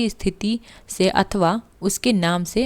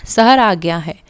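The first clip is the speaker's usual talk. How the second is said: a loud, excited call; a real shout of arrival; 5 dB louder than usual. A narrator's reading. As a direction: call out the news over the carriage. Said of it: "फिर ऊंची आवाज़ में चिल्लाया".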